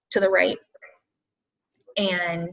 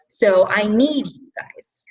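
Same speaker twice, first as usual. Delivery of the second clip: emotional plea; much slower than usual. Real, not acted. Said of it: "I'm gonna get all emotional".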